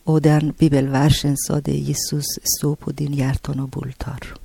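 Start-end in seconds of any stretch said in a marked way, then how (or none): 1.8-4.3 hushed, near-whispered verse; soft reverent quote. Retold or imitated. Quoting the Bible verse she heard, hushed and reverent. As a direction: murmur the verse almost under breath.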